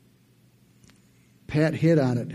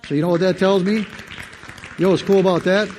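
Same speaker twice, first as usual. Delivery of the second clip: excited shout; 6 semitones higher, 7 dB louder than usual. Real, not acted.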